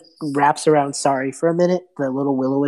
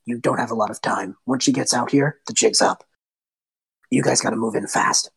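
lower, urgent; Lothar urging; 4 semitones lower, 3 dB quieter than usual. Acted. Lothar urging the party to move in fast. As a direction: quietly press them to hurry. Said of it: "Lothar just floats around and just goes".

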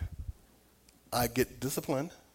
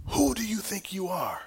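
slow, higher-pitched voice of God confronting; God's rebuke; 6 semitones higher, slower than usual. Retold or imitated. God confronts an angry father outside, slow stern rebuke. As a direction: retell a divine rebuke, measured and stern. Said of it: "And God said to me".

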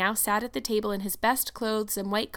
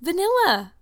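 high, louder mortified answer; 8 semitones higher, 6 dB louder than usual. A narrator's reading. Anne names the flavoring after tasting, mortified. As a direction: answer in mortification, pitch jumping. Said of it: "her face scarlet with mortification".

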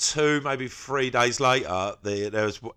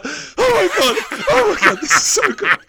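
much higher and louder, laughing with delight; overjoyed mock rave, pitched way up; ecstatic gushing; 7 dB louder than usual. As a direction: gush like you can't contain the joy. Retold joyful outburst at film.

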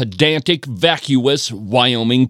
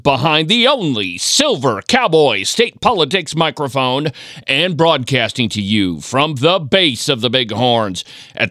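upbeat radio announcer voice; radio host. Acted. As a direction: open the show like a broadcaster. Podcast host opens his show.

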